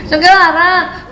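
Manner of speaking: slow, stretched whine; insistent child. Retold or imitated. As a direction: dig in like a stubborn kid. (anak ngotot merengek pelan)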